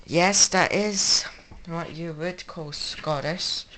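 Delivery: joking Scottish accent that he then calls very bad. Shown as a demonstration. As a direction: put on a clumsy Scottish accent, drawing out yes. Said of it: "That was a very bad impression".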